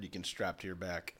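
soft aside whisper. Real, not acted. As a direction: breathe it as a secret.

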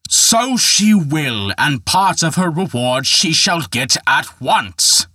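angry villain bellowing his threat; angry shout. Acted. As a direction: shout it at them in rage. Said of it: "shouted a horrible voice".

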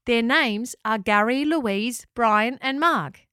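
put-on a keen kid repeating the names aloud; eager child. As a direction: proudly tell the grown-ups. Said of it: "said Seb".

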